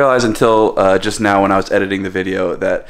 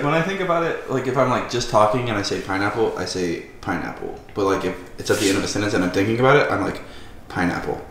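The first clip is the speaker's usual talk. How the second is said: mocking his enunciation; 6 dB quieter than usual. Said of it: "He's like".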